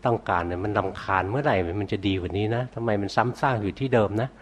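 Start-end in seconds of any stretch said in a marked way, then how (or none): 1.3-4.3 mildly acted inner grumble, pitch climbing; imitated irritation, rising towards the end; mock annoyance. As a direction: voice a meditator's fed-up thoughts, lightly. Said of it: "มันรำคาญใจ รู้สึกไหม?".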